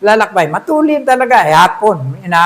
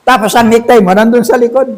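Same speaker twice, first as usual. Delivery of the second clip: laughing; 4 dB louder than usual. Real, not acted. Laughing at backwards necktie image.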